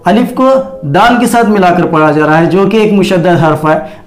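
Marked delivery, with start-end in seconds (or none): none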